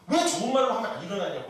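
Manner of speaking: quick, mildly imitated motherly temper; mock scolding. Mother scolding a child still in bed, mock angry. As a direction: act out a fed-up mother, lightly. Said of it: "그러면서 막 승질을 내셨어요".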